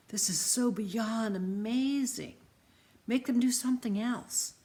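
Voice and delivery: bubbling over with wonder; excited boy. Acted. Jacob excited.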